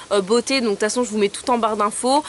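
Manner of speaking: ordinary talk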